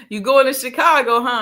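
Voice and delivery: laughing country twang. Retold or imitated. Imitating the brother who teased her about Chicago, laughing country twang. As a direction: tease him in a chuckling country accent. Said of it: "in his little country twang".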